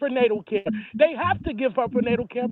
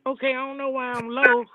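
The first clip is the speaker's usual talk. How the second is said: over the phone; 3 semitones lower, 3 dB quieter than usual. Real, not acted. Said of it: "Is you talking into your phone?".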